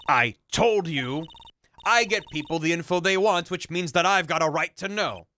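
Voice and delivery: put-on Southern-accented journalist. Journalist insisting on a right to know, Southern accent. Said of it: "A journalist with a southern accent".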